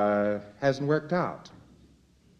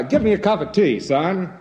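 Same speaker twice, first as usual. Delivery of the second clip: grand sneer; 6 semitones higher than usual. Retold or imitated. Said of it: "you say grandly with a sneer".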